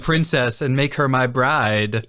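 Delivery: lightly voiced scheming villain; mustache twirling villain. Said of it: "mustache-twirling, sinister, evil villain".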